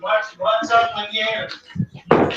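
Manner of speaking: slowly repeated so they can hear; slow clear repeat. Real, not acted. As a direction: say it again, slow and deliberate. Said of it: "Okay, that's better".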